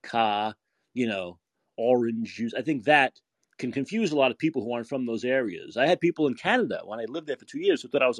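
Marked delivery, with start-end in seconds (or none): 0.0-2.5 "car" and "orange juice" drawn out slowly; drawled words. Shown as a demonstration. American showing the accent's drawl, "car" and "orange juice" drawn out. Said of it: "the way we draw out words".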